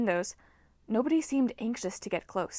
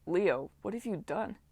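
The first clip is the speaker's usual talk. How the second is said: amazed; 4 dB quieter than usual. A narrator's reading. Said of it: "shook his head in amazement".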